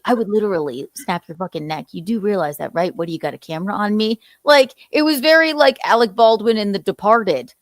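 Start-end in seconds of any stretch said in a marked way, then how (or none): 0.0-4.2 gangster threat. Retold or imitated. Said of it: "It was so gangster to be like".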